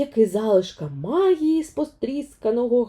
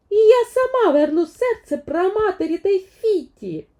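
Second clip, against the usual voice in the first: resolute Vaiana vow; 12 semitones higher, 4 dB louder than usual. Acted. Vaiana vows alone.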